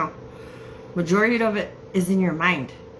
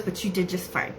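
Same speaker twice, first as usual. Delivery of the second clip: imitating him, slightly softer; his way of talking; 5 dB quieter than usual. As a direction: lightly imitate his soft delivery. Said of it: "That's how he's talking".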